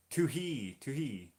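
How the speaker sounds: "Toohey" as too-HEE, with a falling "hee"; sounding out a name. Shown as a demonstration. Streamer trying a viewer's name, "Toohey" as too-hee. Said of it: "Toohey rather than toothy".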